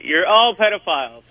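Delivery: playing it safe, not really shouting; half-hearted shout. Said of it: "that wasn't very loud".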